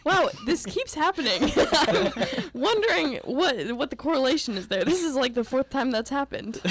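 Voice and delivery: mock bewilderment. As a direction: puzzle aloud as if comically stood up. Joking hurt at repeated cancellations.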